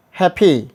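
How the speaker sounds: happy with a stressed ee at the end; wrong ending. Shown as a demonstration. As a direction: lean on the final ee of happy. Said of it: "or we are not telling".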